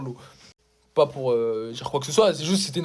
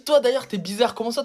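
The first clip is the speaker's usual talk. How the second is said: mock supervisor; 5 semitones higher than usual. Supervisor accusing him.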